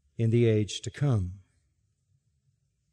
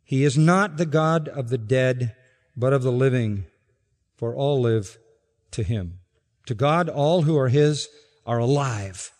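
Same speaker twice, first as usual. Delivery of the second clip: quiet restatement. Shown as a demonstration. Pastor softly rereading the verse to listeners, calm. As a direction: bring it down gently after the climax.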